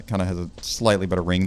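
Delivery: ordinary delivery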